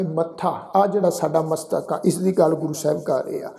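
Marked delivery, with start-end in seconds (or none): 0.0-0.7 ਮੱਥਾ with a held double "tth"; doubled consonant. Shown as a demonstration. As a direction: hold the stop in ਮੱਥਾ, "mat-thaa". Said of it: "ਉੱਪਰ ਅਧਿਕ ਲਗਾ ਕੇ ਉਚਾਰਨ ਕਰਾਂਗੇ".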